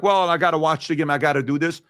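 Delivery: ordinary delivery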